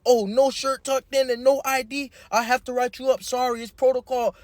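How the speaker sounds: lightly voiced strict teacher; imitating teacher. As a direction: mimic the fussy teacher apologising. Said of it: "She goes".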